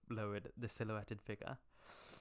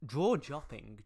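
incredulous; 4 semitones higher, 10 dB louder, slower than usual. Real, not acted. Mocking the fanfic wording.

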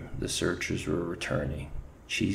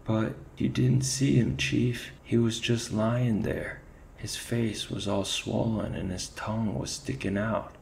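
sobbing plea; 4 semitones higher than usual. Acted. Kneeling soldier tearfully describing the body to his chief. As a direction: blurt it out near tears. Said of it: "fell to his knees, sobbing".

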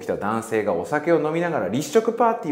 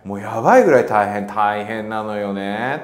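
mock someone who always says "大変だ"; imitating a complainer; 5 dB louder than usual. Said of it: "が口癖の人". (「大変だ」が口癖の人を真似た大げさな声)

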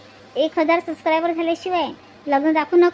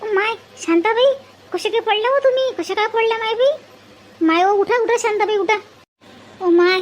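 higher-pitched, worried fussing; acted alarm; 4 semitones higher than usual. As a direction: fuss over someone who has just fallen. Acted alarm at woman's fall.

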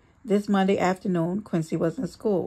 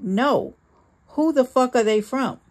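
loud, rising jealous demand; yelled; 5 semitones higher, 3 dB louder than usual. A narrator's reading. Jealous husband yells at her about the flowers. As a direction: snap the question at her, louder at the end. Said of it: "Sean yelled".

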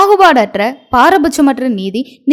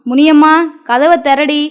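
put-on rough drunken call; 3 semitones higher than usual. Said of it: "முரட்டுத்தனமாக கதவை தட்டினான்".

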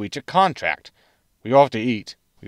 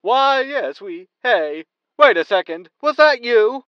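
high, loud startled realization; surprised host; 10 semitones higher, 4 dB louder, slower than usual. Acted. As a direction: catch yourself mid-sentence in surprise. Host recognizes old callers.

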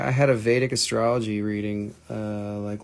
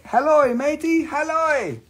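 high, loud hammed-up pirate hail; silly pirate greeting; 9 dB louder than usual. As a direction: bellow it like a cartoon pirate. Pun pirate voice on halloysite.

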